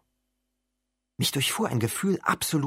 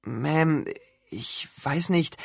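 scared; 4 semitones higher, much slower than usual. Acted. Scared boy faces monster.

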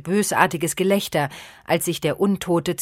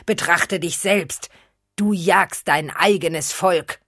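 menacing vampire voice; 2 semitones higher than usual. Acted. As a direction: preach dark contempt as a vampire. Vampire lectures the hunter.

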